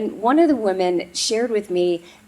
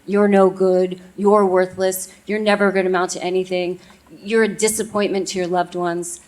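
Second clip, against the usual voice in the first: louder, harsh inner critic; 4 dB louder than usual. Retold or imitated. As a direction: hurl the insults like a cruel inner voice. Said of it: "that voice inside of your head that says horribly mean things".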